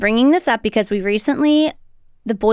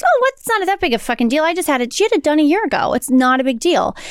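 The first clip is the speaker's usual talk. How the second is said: higher-pitched, brushing it off; dismissive; 4 semitones higher than usual. Retold or imitated. Girlfriend shrugging off the prolapse worry, dismissive. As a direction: imitate a friend waving away the fuss.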